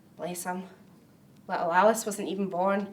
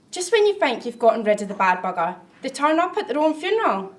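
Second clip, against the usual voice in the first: mild exasperation; 3 semitones higher, 4 dB louder than usual. Acted. Imagines the dead attending funerals.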